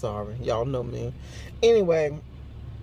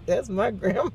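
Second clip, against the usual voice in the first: grinning grandbaby; 5 semitones higher than usual. Retold or imitated. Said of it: "big grin on her face like".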